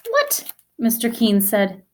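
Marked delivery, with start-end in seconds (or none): 0.1-0.5 high, hushed alarmed what; a quick high worried what; startled what. A narrator's reading. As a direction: caught off guard and worried. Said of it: "He looked very worried".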